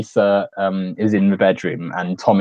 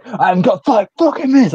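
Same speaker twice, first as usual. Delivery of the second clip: higher, louder mock yell; angry drug dealer; 12 semitones higher, 4 dB louder than usual. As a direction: bark it like a thug losing patience. Drug dealer threatens Denny.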